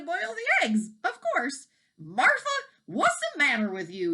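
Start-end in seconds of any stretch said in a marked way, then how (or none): 2.0-4.1 louder call, a mild storybook yell; a farmer shouting at his wife, mild yell. A narrator's reading. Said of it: "yelled Mister Wagon Wheel".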